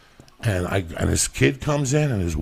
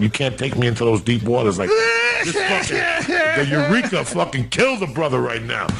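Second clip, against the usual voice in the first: shouted rant; 3 semitones higher than usual. Real, not acted. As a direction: let it burst out. Rant climax.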